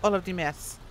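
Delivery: put-on Russian accent. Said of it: "I can't say meth in a Russian accent".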